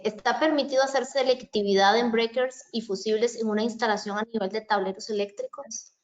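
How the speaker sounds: breaking up over a bad call line; glitchy, cutting-out call audio; choppy connection. Real, not acted. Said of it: "te escucho entrecortado".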